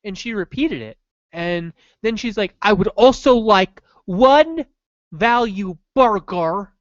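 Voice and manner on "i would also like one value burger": very slow mock Davy Jones accent. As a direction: drag out each word in a pirate-captain Davy Jones accent. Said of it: "It was like Davy Jones' accent".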